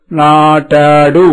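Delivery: నాటాడు stretched out very slowly, rising at the end; blended model word. Shown as a demonstration. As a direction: join the syllables నా టా డు slowly. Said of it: "మూడు అక్షరాలు కలిపి చెప్పండి".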